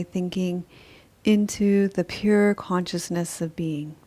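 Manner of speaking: calm, even Yoga Nidra guiding voice with long pauses; guided meditation. Acted. Teacher leading highly sensitive people into meditative rest, calm guided meditation. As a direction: guide listeners into rest, phrase by phrase, leaving space between.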